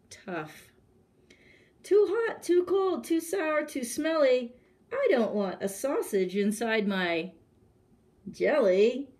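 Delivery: hammed-up grumpy king rejecting food; fussy king complaining. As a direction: whine like a spoiled king. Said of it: "said the hungry king".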